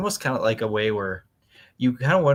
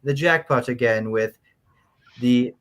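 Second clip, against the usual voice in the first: mannered, British-sounding fifties letter writer; nineteen-fifties voice. Acted. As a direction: read it out in your best old-time fifties voice. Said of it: "in your best nineteen fifties voice".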